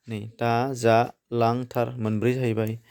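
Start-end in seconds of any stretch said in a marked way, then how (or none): 0.4-1.9 very slow "दा जालांथार" with gaps between parts; syllable-by-syllable demonstration. Shown as a demonstration. Teacher repeating the word to count its parts, slow and segmented. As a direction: stretch out each piece of "दा जालांथार".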